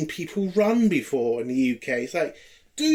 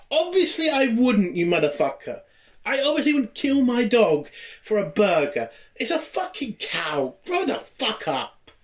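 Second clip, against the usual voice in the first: higher-pitched indignant comeback; exasperated retort; 5 semitones higher than usual. Acted. Reviewer retorting to vegetarians about killing his dog, exasperated. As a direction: fire back, fed up with a silly question.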